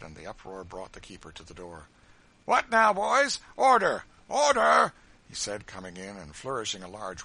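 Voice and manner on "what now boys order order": high, very loud call to order; sharp, forceful keeper's command; commanding shout. A narrator's reading. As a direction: bellow at an unruly room. Keeper storms in to restore order.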